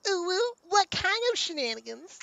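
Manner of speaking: high, eager ooh ooh; a high, playful squeal; excited squeak. Acted. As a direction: bounce up with glee. Excited reply to teasing.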